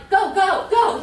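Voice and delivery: shouting high and loud like a cheerleader; hyped shout. Retold or imitated. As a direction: yell it like you're pumping up a crowd. Mimicking hyped ethics officer.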